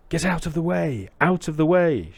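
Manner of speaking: high, loud warning call; shouting mahout. Acted. Mahout to the boy in the way, shouting. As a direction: call urgently to clear the road. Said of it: "shouts the Mahout".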